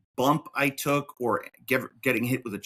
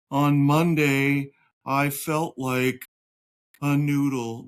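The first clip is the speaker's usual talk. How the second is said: very slow, drawn-out mock report; mock announcement; 4 dB louder, slower than usual. Parodying dull health updates to the listeners, slow mock announcement. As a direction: draw out every word ponderously.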